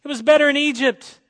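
high, loud mock whining; hammed-up complaining about food; whiny Israelites. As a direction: Israelites moaning to God for meat, whiny. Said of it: "They said".

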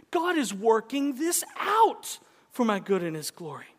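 loud line, weight on out; stress on out. Shown as a demonstration. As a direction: lean on the word out. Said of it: "emphasize different words in that sentence".

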